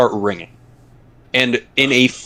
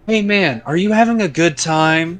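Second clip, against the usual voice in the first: higher, eager friendly check-in; mock Dakota; 4 semitones higher than usual. Mocking Dakota asking everyone at the fire, eager. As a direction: play the overly caring friend. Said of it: "I didn't say it like that".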